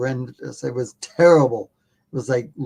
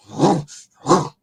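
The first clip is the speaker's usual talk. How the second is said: imitated grunt; 3 semitones higher, 3 dB louder than usual. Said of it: "it grunted in my ear".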